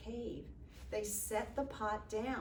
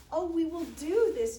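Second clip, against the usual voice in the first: higher, louder eager promise; eager agreement; 6 semitones higher, 9 dB louder than usual. A narrator's reading. Villagers promising the sick chief to help, eager. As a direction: answer keenly, voice lifted.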